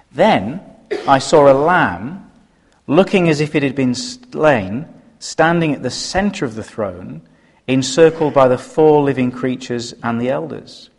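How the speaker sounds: measured Bible reading to the church; scripture reading. Acted. Preacher reading the verse to the congregation, measured. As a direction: read the verse with weight.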